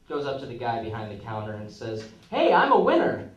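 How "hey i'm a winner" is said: loud proud announcement, higher; boastful shout. Acted. Joke character boasts loudly.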